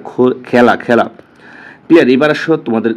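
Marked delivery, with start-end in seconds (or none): 0.5-1.1 খেলা said as "khæla", with an open æ; altered এ vowel. Shown as a demonstration. Teacher showing students the altered এ, খেলা pronounced "khæla". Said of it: "এ বর্ণের বিকৃত উচ্চারণের উদাহরণ".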